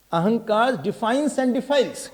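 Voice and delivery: slow, careful repeat of each word; said slowly. Shown as a demonstration. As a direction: spell it out slowly for the listener. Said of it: "Slowly say".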